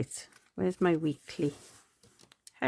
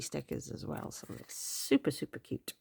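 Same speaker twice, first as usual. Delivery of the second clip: cute whisper; 7 dB quieter than usual. Real, not acted. Gushing over washi stickers.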